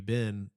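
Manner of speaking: "been" said "bin", just like the name; short i in "been"; merged vowel. Retold or imitated. Roommates mimicking Southerners, "been" said as "bin". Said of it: "you say it the same".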